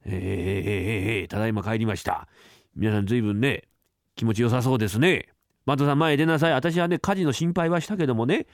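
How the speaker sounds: a boss barely holding his anger; stern master. Acted.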